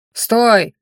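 громкий протяжный окрик стражника; гаркни протяжно и громко. Acted. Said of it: "протяжно гаркнул один из них". (протяжно гаркнуть)

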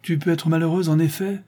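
the farmer harshly rebukes his daughter; gruff. A narrator's reading. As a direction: snap back at his daughter. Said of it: "dit rudement le fermier".

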